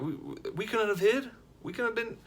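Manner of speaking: exasperated emphasis. Real, not acted. Can't hide, obvious foreigners.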